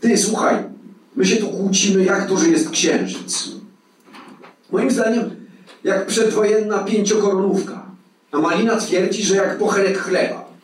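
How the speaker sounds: high-pitched, eager appeal to settle a quarrel; keyed-up arguer. A narrator's reading. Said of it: "prawił zaoferowany". (przejęty, podniesiony ton)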